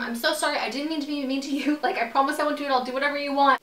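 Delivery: high, pleading, half-laughed begging; retold panicked apology. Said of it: "I'm, like, apologizing to him".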